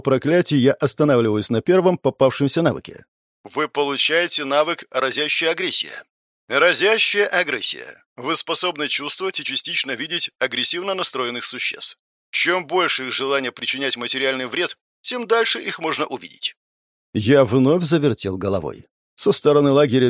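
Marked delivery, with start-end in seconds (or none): 3.4-6.0 system announcement. Acted. System message read out. 6.5-16.5 soft, even system voice; system announcement. Acted. System message read out.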